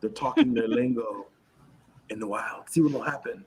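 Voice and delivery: Australian wildlife host; Australian accent. Acted. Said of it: "my best Australian accent".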